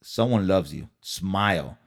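tender send-off to cheer the viewers up; kind words. Real, not acted. Signing off the vlog to viewers, gently reassuring. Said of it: "leave you with these kind words".

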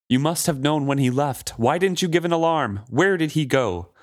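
lightly acted angry demand; yelling. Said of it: "basically yelling at her".

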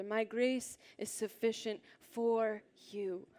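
slow, drawing out "for" and "you" separately; stress on for you. Shown as a demonstration. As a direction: land deliberately on "for you", each word on its own. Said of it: "These next two words".

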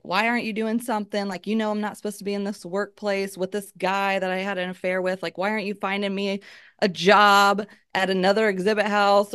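angrily demanding why he does nothing; retold yelling. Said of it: "I'm yelling at him".

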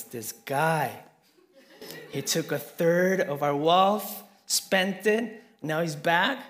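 mock indignant complaint about the returning brother; indignant older brother. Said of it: "He's angry".

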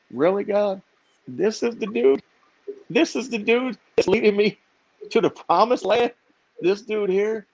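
high-pitched disbelief, each phrase a question; incredulous questioning. Retold or imitated. Questioning God about the unlikely guide.

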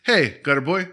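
a touch of a jolly boss; upbeat mood. Retold or imitated. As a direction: hand out odd gifts with gusto. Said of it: "it was this weird thing".

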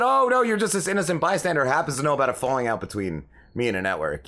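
quick mocking sarcasm; fast sarcastic jab. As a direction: rattle it off, dripping sarcasm. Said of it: "I said".

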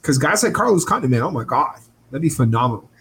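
breathless, gushing oh my God. Real, not acted. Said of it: "You sounded like a Valley girl".

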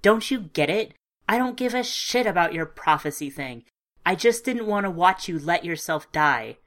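loud, pained protest; upset outburst. Acted. Petra berating the narrator about dying, loud and upset. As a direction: let it burst out of her, near tears. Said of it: "Petra burst out".

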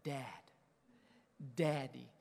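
softly imitated child, low-key; little daughter's address. Daughter looking at her father, softly voiced. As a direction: say it small and tender. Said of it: "Peyton looks at me and says".

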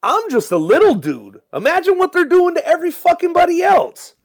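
indignant rant. Retold or imitated. Small artist protesting the platform, high and indignant. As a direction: rail against it from the little guy's side. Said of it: "And I'm like".

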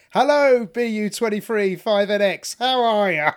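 loud, high showman hello; stage host greeting. Retold or imitated. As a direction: boom it out like a compère. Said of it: "I literally walk on stage and go".

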